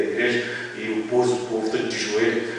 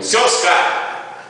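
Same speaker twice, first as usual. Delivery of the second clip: sudden high, drawn-out call of a name; retold calling out; 7 semitones higher, much slower than usual. Preacher pointing at a man in the congregation, retold calling out. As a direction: call him out from the pulpit, higher.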